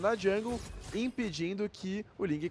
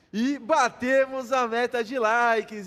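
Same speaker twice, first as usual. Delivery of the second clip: comemorando; 4 semitones higher, 7 dB louder, slower than usual. Real, not acted. Comemora meta de likes batida.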